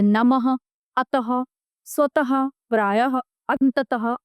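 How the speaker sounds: नमः, अतः, स्वतः, प्रायः, अंततः each ending in a breathed ha; visarga as ha. Shown as a demonstration. Teacher showing visarga, नमः, अतः, स्वतः, प्रायः, अंततः ending in ha. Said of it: "उच्चारण है की तरह किया जाता".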